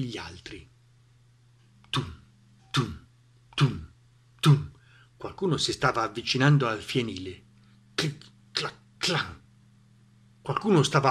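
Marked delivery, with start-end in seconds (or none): 1.9-4.7 spaced, low thuds; imitated footsteps. A narrator's reading. Someone approaches the barn, ominous spaced thuds. 7.9-9.4 short, soft clicks and a clank; imitated latch noises. A narrator's reading. Someone works the barn door, imitated clicks.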